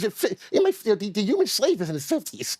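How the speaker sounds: defensive, slightly squeaky puppet voice; high-pitched protesting. Real, not acted. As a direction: voice climbing in self-defense. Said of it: "how high it's getting".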